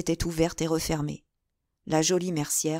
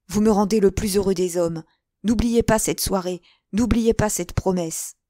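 elated, fervent; 3 semitones higher, 6 dB louder than usual. Acted. D'Artagnan to the woman he loves, elated and fervent. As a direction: gush with fervent gratitude. Elated lover begs her to remember.

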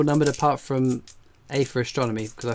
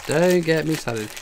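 drawn-out "Don't", slowly delivered; emphatic slow repeat; 3 semitones higher, slower than usual. Real, not acted. Streamer grumbling about the alien game, slow and emphatic. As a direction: stretch DON'T and slow the phrase down.

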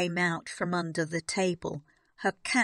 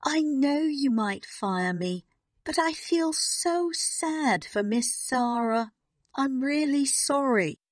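higher, tearful apology; sorry through tears, voice raised high; tearful pleading; 7 semitones higher than usual. A narrator's reading. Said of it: "She started crying again".

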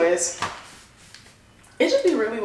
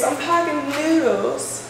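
slow, higher, on the edge of laughing; giggly silly line; 5 semitones higher, slower than usual. Real, not acted. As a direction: say it while cracking up.

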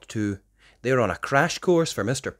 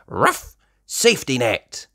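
pup command. Acted. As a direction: bark it out. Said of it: "orders Chase".

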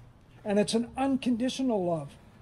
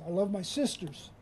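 much softer, "love" gently stressed and falling; soft, hushed echo; 3 semitones lower, 10 dB quieter than usual. Shown as a demonstration. Preacher echoing the line to the congregation, softly hushed. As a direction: drop to a near hush on "love". Contrasting lines about loving siblings.

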